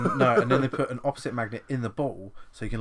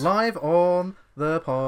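slow exasperated aside; 7 semitones higher, 8 dB louder, much slower than usual. Real, not acted. Mocking the phone failing live.

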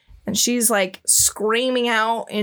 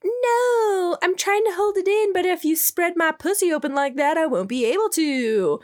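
put-on high, breathy girlish plea, falling toward the end; high pleading priestess; 9 semitones higher than usual. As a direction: squeal the protest way up high, then settle. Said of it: "And she's like".

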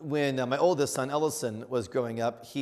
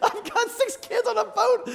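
very high, strained panic; hammed-up squealing desperation; acted hysteria; 3 dB louder than usual. Dad with six kids on a stalled boat, high mock hysteria.

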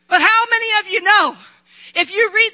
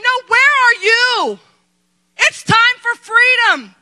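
God answering; 3 semitones higher than usual. Retold or imitated. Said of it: "he's saying".

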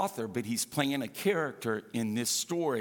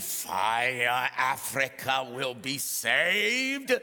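lower, slow crusade-preacher proclamation; Reinhard Bonnke impression; 3 semitones lower, much slower than usual. People imitating a crusade evangelist, lower and slow. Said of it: "imitate Reinhard Bonnke".

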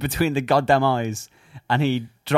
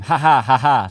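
Will Smith laugh; 3 dB louder than usual. Retold or imitated. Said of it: "That was Will Smith".

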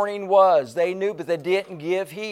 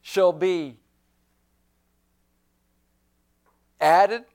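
proclaiming Moses; 3 semitones higher, slower than usual. Acted. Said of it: "Moses said".

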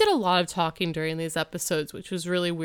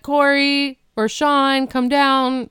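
calling upstairs; 3 semitones higher, 5 dB louder than usual. Retold or imitated. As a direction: shout it up to the kids.

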